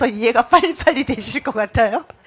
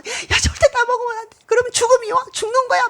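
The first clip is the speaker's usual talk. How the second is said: much higher, near tears; God tearfully warning Adam of death; God pleading; 14 semitones higher than usual. Acted. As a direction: beg Adam not to eat, voice breaking high. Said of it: "이렇게 표현을 하자면".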